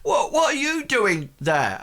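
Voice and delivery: high, lilting put-on Welsh accent. Blacksmith coming out to strangers, high Welsh-accented challenge. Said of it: "Welsh accent".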